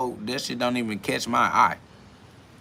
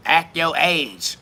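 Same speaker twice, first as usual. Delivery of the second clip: slow, higher, drawn-out mock scolding; 5 semitones higher, 4 dB louder, much slower than usual. Mimicking people who tell him to act his age, mocking. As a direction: drag it out like a preachy nag. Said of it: "They be like".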